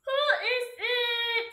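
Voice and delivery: high, cackling disguised wolf. A narrator's reading. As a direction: cackle it like a sly old wolf. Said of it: "he called in a cackling voice".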